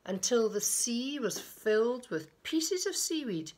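put-on children's picture-book reading, lilting; storyteller pausing between phrases; story narration. A narrator's reading. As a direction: read it to little ones with deliberate emphasis. Reads a picture book aloud.

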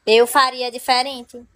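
normal talking voice

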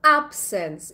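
"absence" in a musical fall, strong AB, light second syllable; stress on first syllable. Shown as a demonstration. Teacher likening stress to music, "absence" lilting and front-stressed. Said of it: "is like music. Stresses are like music".

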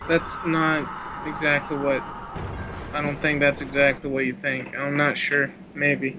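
glitchy static-laden voice; robot voice. Real, not acted. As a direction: voice breaking up like bad connection. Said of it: "What has happened to your voice?".

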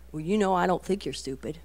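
soft, restrained reply; gentle reassurance. Retold or imitated. Mom choosing not to defend herself, softly reassuring. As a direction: imitate a mom calmly reassuring her child. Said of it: "but I don't. I just say".

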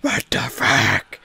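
drawn out slow and low; mock-deep slowed-down repeat; slow low drawl. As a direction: drag it out low in disbelief.

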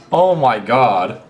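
slow, drawn-out disbelief; slow exasperated exclamation; stunned reaction. Real, not acted. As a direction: stretch each word in amazement.

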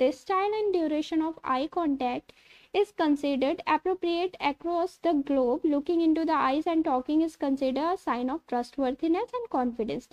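slow, careful reading of notes; slowly dictating textbook lines; reading aloud. Acted. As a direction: read it out word by word, slowly. Reads English slide text.

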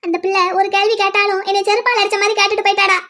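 upset mother on the edge of tears; tearful. Acted. Hurt mother laments to her son, tearful. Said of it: "அழுதுகிட்டே இருக்கீங்க".

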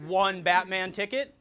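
mildly awkward ticket request; a touch of unease in the asking; uncomfortable. Acted. Opponent in disguise asks at the ticket booth, mildly uncomfortable. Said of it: "J C uncomfortably spoke".

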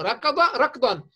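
slow and deliberate, stressing ركضا; slow emphatic model phrase; slow example for noticing. Shown as a demonstration. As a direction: spell out ركض ركضا slowly so pupils notice. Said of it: "لاحظوا".

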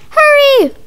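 urgent shout. Acted. Kids rush to cheer Daddy.

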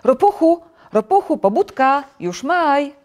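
high, loud excited calling; eager shout of reveille; wake-up call. A narrator's reading. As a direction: rouse your friend with big news. Frog wakes toad with news.

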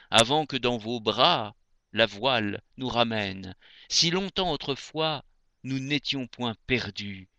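measured, lyrical poem reading; poetry recitation. Acted. Reader reciting André Chénier to radio listeners, poetry recitation. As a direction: recite verse with phrase-end pauses.

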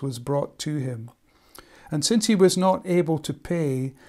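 steady storytelling reading of a parable; scripture reading. Acted. Preacher reads Matthew eighteen to the congregation, steady and measured. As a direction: tell the parable plainly to the church.

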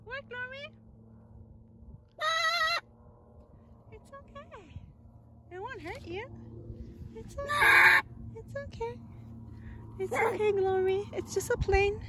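calm the scared bird down; soothing coo. Real, not acted. Soothing the frightened birds.

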